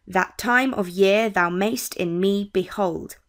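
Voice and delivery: "That time of year thou mayst in me behold" read slowly, weak then strong; measured weak-STRONG beat on "that TIME of YEAR thou MAYST in ME beHOLD"; iambic stress. Shown as a demonstration. Teacher showing the pattern in a line of poetry, iambic stress on "TIME", "YEAR", "MAYST", "ME", "behold". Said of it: "one weak syllable and one stressed".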